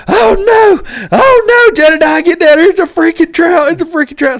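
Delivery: high, loud panicked yelling; excited yell. Retold or imitated. Fisherman yelling to his buddy about a trout, high excited shout. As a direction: yell to your buddy to get down here fast. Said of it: "And I'm yelling at Jedediah".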